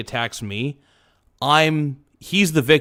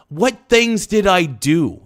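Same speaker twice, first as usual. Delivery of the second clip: indignant; 6 semitones higher, 5 dB louder, slower than usual. Real, not acted. Angry rant about ex-friend.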